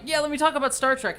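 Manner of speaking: eager nerdy outburst. Retold or imitated. Nerd pitching Star Trek to coworkers, eagerly. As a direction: burst in keen to share your nerdy passion. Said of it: "I've always just been like".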